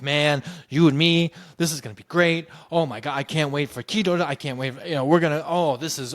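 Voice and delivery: imitating a gushing, excited boss; excited director. Director thrilled by the rehearsal, gushing excitedly to teacher. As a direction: pile up the phrases eagerly. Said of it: "he just got so excited".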